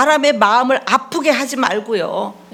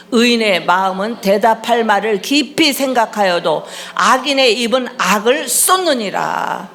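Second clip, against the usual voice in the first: scripture reading; 2 semitones higher, 4 dB louder than usual. Acted. Pastor leading worshippers in a proverb, formal recitation. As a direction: proclaim the proverb to a congregation. Reads proverb aloud with congregation.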